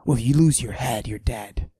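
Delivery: macho voice pushed down, held the whole bit; forced deep voice. Acted. Mister Steal Your Girl hiding his estrogen with a forced deep voice. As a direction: fake a deep tough-guy voice. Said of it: "I deepen my voice like this".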